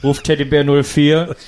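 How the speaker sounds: trucker radio call, laughing through it; taxi dispatch radio. Pretend. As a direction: read the vows like a CB radio call. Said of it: "über Funk".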